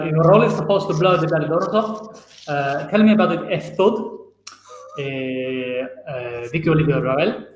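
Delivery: put-on reading lines in a Spanish accent. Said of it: "Do it in a Spanish accent from now on".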